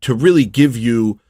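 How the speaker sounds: lightly voiced gushing chatbot; a hint of a fawning, delicate chatbot; mocking ChatGPT. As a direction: parody a syrupy, overly careful AI assistant. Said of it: "I hate the way it talks".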